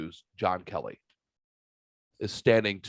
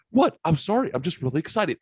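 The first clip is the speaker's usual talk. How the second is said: pitched-up, retold excited protest; excited apology; 6 semitones higher than usual. Kid excusing his outburst at the wake, excited apology. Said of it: "just gets all excited".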